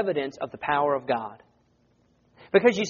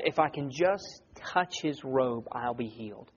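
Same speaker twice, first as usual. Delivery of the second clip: softer, slower, lower quote; saying to herself; 5 semitones lower, 8 dB quieter than usual. Acted. Preacher quoting the woman's private thought, softly to herself. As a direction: voice a hushed thought to yourself. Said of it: "she says to herself".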